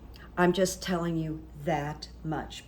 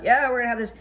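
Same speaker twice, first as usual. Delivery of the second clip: retold loud talk; 5 semitones higher, 6 dB louder, much faster than usual. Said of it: "he was really talking loud".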